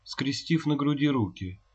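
ordinary delivery

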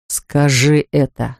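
slow, low, seething demand; angry insistence. Acted. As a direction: drag out each word in anger. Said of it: "твердил он багровея".

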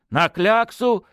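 "На кляксу!" said firmly with a falling end on кляксу; "кляксу" stated, not asked, falling tune; confident confirmation. Acted. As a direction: nod it through, certain. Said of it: "кивнув, подтвердил князёк".

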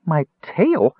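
high, startled squeak; mouse squeak. A narrator's reading. Mouse kender discovers his tail, squeaking high. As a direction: squeak in disbelief. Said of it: "Tass thought wildly".

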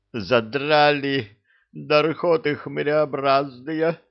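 slow, high tired moan; weary groan. Acted. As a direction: groan it out, worn out. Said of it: "устало простонала Нет".

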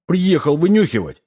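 high-pitched accusing outburst; angry bark. A narrator's reading. Mac confronts the unmasked spy, angry bark. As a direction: bark it out in outrage. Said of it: "гаркнул Мак".

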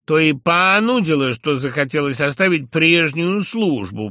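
drawled reply. A narrator's reading. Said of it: "протянул я втрое больше".

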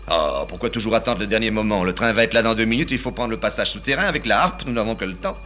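put-on high, loud, bustling old father; father calling his son to catch the train, high and loud; fussy old father. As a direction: burst in hurried and shrill-pitched, calling his son. Father fussing about train.

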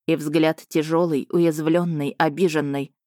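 plain reading voice

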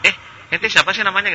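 a touch of a casual fighter making small talk; chatty soldier. Acted. Soldiers chatting mid-battle, joke.

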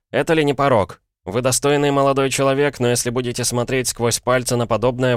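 высокий возмущённый голос, начать с вопроса-эха; негодующе отчитывать собеседника, повысив голос; гневная вспышка. A narrator's reading. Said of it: "слегка удивлённый такой вспышкой". (возмущённая вспышка)

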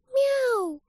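high, soft cat meow. A narrator's reading. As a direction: mew like a real cat, barely audible. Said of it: "едва слышно сказала Лилит".

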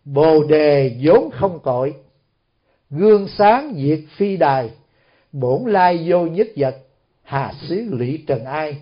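slow, measured reciting, pausing after each line; retold verse recitation. Huệ Năng dictating his verse to the official, slow recitation. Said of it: "mới không biết chữ nhưng mà đọc thế này".

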